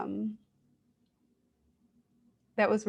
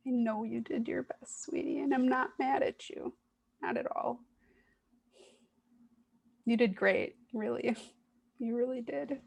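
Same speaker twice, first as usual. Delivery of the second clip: tender reassurance. Real, not acted. Speaker comforting her own hurting inner part, tender.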